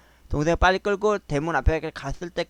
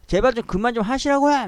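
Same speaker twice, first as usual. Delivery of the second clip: higher-pitched pleading outburst, half-shouted; retold exasperated shout; 8 semitones higher, 3 dB louder than usual. Narrator to sister's mother-in-law, begging her to stop, exasperated half-shout. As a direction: reenact yelling at an elder to stop. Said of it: "막 이러면 소리 지르면서".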